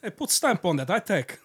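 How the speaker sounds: broken English, mock Russian; hammed-up Russian immigrant voice; Russian accent. Joking about mail, Russian accent. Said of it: "you're killing it with that".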